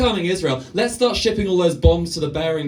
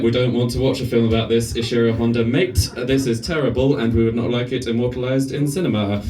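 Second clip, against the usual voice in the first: crowd; 4 semitones lower than usual. Retold or imitated. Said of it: "stand there going".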